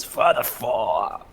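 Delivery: slow, drawn-out character voice; Noel voice. Acted. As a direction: drag it out in Noel's voice. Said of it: "in my Noel voice".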